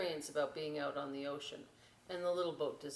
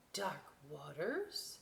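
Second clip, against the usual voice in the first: nervous; 2 semitones lower, 5 dB quieter, slower than usual. Acted. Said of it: "Brightness shivered her sails".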